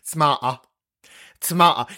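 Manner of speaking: "tomato" as tuh-MAH-uh, long ah; regional British pronunciation. Shown as a demonstration. Host showing shared speech with caller, tuh-MAH-uh "tomato". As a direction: repeat "tomato" with a loose, dropped final t. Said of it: "in the same way".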